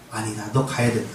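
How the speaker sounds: God overruling Moses, low and firm; voicing God. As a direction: settle it calmly from above.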